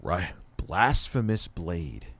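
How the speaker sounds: stoner voice. Real, not acted. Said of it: "you know I'm stoned right now".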